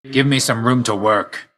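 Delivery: forceful combat call; battle command. Acted. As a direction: demand space in the middle of a fight. Combat order to an ally.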